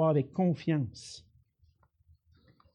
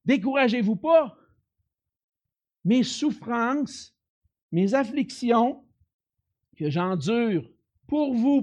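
Paul's exhortation; 4 semitones higher, 4 dB louder than usual. Acted. Voicing Paul encouraging.

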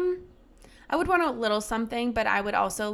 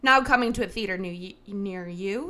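playful movie-trailer read; mock trailer announcer; 3 dB louder than usual. Host casting herself and friend, mock announcer. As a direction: announce a coming film, tongue in cheek.

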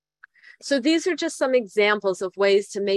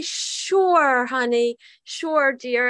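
eager mom; 4 semitones higher, much slower than usual. Retold or imitated. Mom eagerly answering dad.

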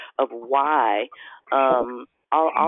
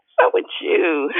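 laughing through the greeting; giggling question; 2 semitones higher, 4 dB louder than usual. Real, not acted. Laughing reply.

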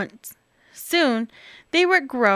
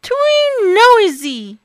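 higher, louder wail; crying Baby Bear; 9 semitones higher, 7 dB louder, slower than usual. Acted. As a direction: whimper like a cub. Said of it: "cried Baby Bear".

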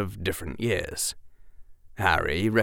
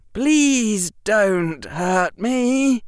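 very slow, higher and louder plea with a sneer under it; pleading that sounds insulting; 12 semitones higher, 6 dB louder, much slower than usual. A narrator's reading. Harry tries pleading again but sounds insulting. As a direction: beg but let contempt leak through. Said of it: "make that sound like an insult".

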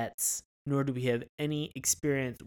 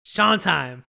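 loud swagger; 2 semitones higher, 7 dB louder than usual. Acted. Flirty bragging address to Lacey.

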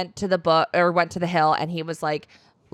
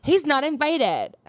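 insistent refusal; 5 semitones higher, 4 dB louder than usual. Retold or imitated. Acted argument over the dwarf's invitation.

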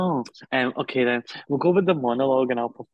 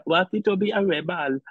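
attempted Welsh accent. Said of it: "I'm trying Welsh".

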